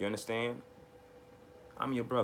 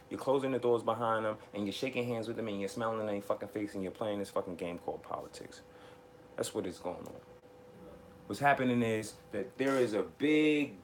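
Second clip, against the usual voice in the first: ordinary talk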